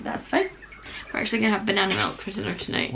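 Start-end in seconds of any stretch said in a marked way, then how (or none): 0.0-0.5 whispering from lost voice. Real, not acted. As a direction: whisper it, you can barely speak. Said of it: "Apologies for the voice".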